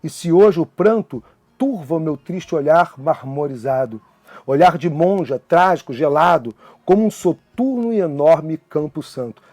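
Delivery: a teacher reciting a sonnet to the class; poem recital. Acted. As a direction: read the sonnet with feeling, letting each line land.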